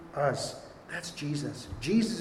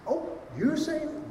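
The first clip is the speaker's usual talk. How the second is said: higher, slow amazed question; astonished; 10 semitones higher, slower than usual. Pretend. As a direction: gasp out the realisation slowly. Astonished listener reacting.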